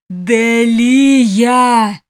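an imp bellowing for her; furious roar. A narrator's reading. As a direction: roar the name across the dark. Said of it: "яростный рёв беса".

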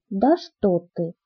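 slow, drawn-out mock surprise; a sarcastic "oh really" dragged out. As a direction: lay the sarcasm on slowly. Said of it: "съязвила я".

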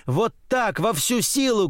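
high, urgent cheering; excited cry. A narrator's reading. Girl on a swing demands all his strength, excited cry. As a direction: urge him on in a high cry. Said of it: "кричит она".

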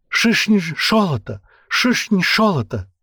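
Шишни шолото high, ш for ж and з; lisped. A narrator's reading. Captive bargaining for his life, lisped Шишни шолото. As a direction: lisp Шишни шолото pleadingly. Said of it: "Жизнь золота".

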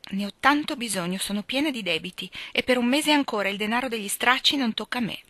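hint of a pompous schoolgirl; voiced Amy. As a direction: show off a big word proudly. Narrator voicing Amy.

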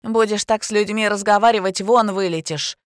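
sharp indignant scolding. A narrator's reading. Indignant receptionist warns a rude clerk. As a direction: threaten her, outraged. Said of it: "возмутилась Лола".

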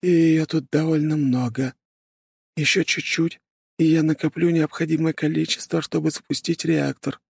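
high, even machine-like voice; calm artificial helper voice; AI companion voice. Acted. Avrum calmly explains.

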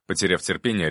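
ordinary delivery, nothing marked

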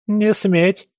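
sharp high forbidding cry; heated stop. Acted. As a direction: cut her off hotly. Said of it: "горячо остановила бабушка". (горячо запрещая)

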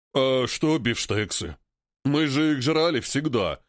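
slow, odd ape voice; reasonable ape voice. Acted. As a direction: ask it like a puzzled ape. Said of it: "резонно спросил тот". (рассудительный голос обезьяны)

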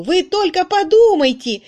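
put-on overjoyed at recognising the girl; радостное восклицание; delighted exclaiming. Charwoman recognises old doctor's daughter.

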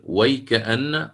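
ويكأن said slowly and in full; resuming from the start. Shown as a demonstration. Teacher shows how to resume the recitation, slowly. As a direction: restart with ويكأن slowly, joined together. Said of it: "أستأنف من الأول".

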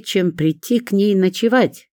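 ordinary delivery

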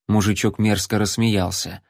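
ordinary delivery, nothing marked

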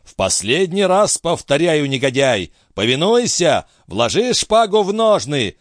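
rising, menacing final warning; old father threatening his son, voice climbing high. Acted. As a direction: threaten him one last time, voice climbing. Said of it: "повторил Дон Руис с угрозой".

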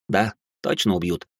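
ordinary delivery, nothing marked

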